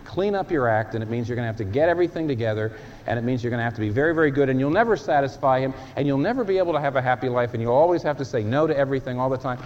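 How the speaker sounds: fast, pushy voice of the devil rattling off demands; the devil pressuring a would-be Christian, rapid and insistent; nagging devil. Acted. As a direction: rush the list like a relentless accuser. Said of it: "The devil will make you say".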